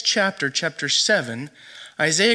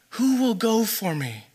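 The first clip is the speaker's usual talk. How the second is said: God's question lifted in pitch, still restrained; raised divine call; 3 semitones higher than usual. Retold or imitated. God's call repeated, more raised.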